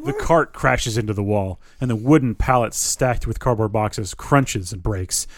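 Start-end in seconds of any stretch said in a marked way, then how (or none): none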